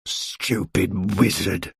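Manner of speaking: low, soft, slow mutter. A narrator's reading. Mister Stingy grumbling after the wizard leaves, muttered. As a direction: grumble it under your breath. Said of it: "muttered Mister Stingy".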